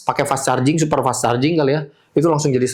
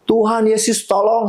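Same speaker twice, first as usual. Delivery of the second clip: retold desperate cry; 7 semitones higher than usual. Telling the host how he cried out to Jesus, a mild high-pitched mock cry. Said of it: "Saya cuman bisa teriak".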